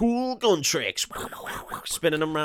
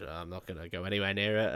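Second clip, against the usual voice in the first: put-on quiet, lightly drawled Western cowboy accent; a hint of an old Western cowboy accent, said low; 6 semitones lower, 7 dB quieter than usual. Retelling Doc's line to co-host in a light Western cowboy accent. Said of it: "I can't stop doing the accent".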